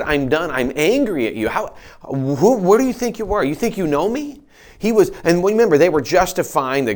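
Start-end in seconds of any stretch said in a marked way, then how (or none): 0.0-4.4 higher, rising indignant rebuke; God's anger. Acted. God rebuking the three friends, indignant. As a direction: tell them off with rising indignation. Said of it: "He literally turns to these three men and said".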